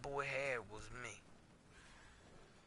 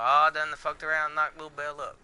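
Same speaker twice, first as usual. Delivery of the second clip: louder, playful mock announcement; mock excited confession; 3 semitones higher, 14 dB louder than usual. Pretend news to the audience about a baby, louder. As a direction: blurt it out like big news, half joking. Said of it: "I would have been telling y'all".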